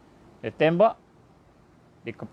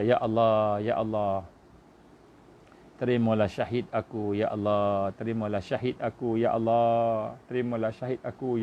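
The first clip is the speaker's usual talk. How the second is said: lower, hushed, repeated prayer of a dying man; dying man's prayer; 6 semitones lower, 4 dB quieter than usual. Retold or imitated. Preacher voices the shot youth praying at death, low and hushed. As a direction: murmur it as breath runs out, pleading. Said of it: "dia kata".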